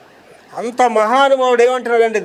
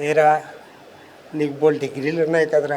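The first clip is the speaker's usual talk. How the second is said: voice of God; 5 semitones lower, 3 dB quieter than usual. Retold or imitated. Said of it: "దేవుడు నాతో మాట్లాడుతున్నాడు".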